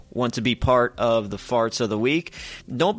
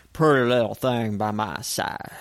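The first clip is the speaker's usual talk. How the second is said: mock country twang; 3 semitones lower than usual. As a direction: slur it like a country singer's line. Mock country song one-liner.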